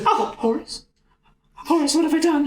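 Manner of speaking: high, anguished dying lament; hammed-up dying regret; mock anguish. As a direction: wail it like a dying man full of regret.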